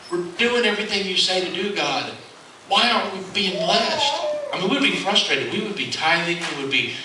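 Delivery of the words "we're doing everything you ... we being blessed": retold crying out. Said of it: "she would cry out".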